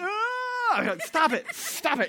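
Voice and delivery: high whiny cry; imitating a child whining to be heard; mock child whine. Preacher imitating his daughter whining in the next room.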